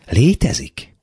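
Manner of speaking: high-pitched, wondering question; amazed. A narrator's reading. The girl marvelling at Gavrilescu, amazed. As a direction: lift the word in astonishment. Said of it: "ámult a lány".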